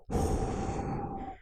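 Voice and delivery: fast "who" blow into hand; cold blow out. Shown as a demonstration. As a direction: blow a quick cool stream. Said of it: "And now go".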